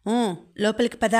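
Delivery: a grave husband's voice; grave command. A narrator's reading. Husband orders his hesitant wife inside, gravely. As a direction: say it with solemn authority. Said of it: "గంభీరంగా అన్నాడు మూర్తి".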